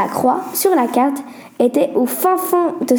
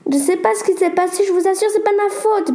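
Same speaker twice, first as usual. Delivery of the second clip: stammering; 7 semitones higher than usual. Acted. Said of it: "balbutia la grande fille".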